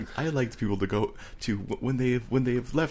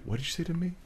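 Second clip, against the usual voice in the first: mock confrontational; 11 semitones higher, 5 dB quieter, faster than usual. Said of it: "my new favorite thing to say".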